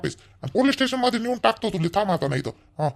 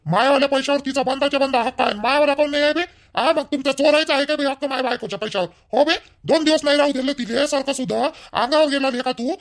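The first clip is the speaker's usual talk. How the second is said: angry shouting; 4 semitones higher than usual. Acted. In-law quarrel over wife's money.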